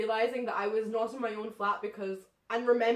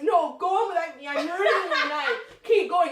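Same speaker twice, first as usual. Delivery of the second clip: higher, louder, laughing plea; drunk protest; 5 semitones higher, 8 dB louder than usual. Retold or imitated. Drunk Rachel pleading with friends, laughing. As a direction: beg them to leave you, half laughing. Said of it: "because I'm like".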